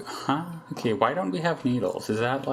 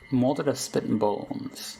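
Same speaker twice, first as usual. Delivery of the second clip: dramatic reading; slower than usual. Acted. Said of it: "I don't know why I said it like that".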